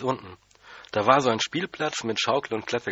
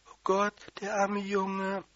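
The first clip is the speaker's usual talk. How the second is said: hohe, langsame, klagende Tantenstimme; hoch und gedehnt jammernd rufen; entsetzter Aufschrei; 10 semitones higher, slower than usual. A narrator's reading. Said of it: "Die Tante hat geschrien". (verzweifelte Tante, hoch und langsam)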